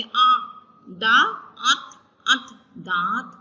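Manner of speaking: दांत split into आ, दा, अत; syllable-by-syllable दांत; sounding out slowly. Shown as a demonstration. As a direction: build दांत piece by piece. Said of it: "आ पढ़ेंगे".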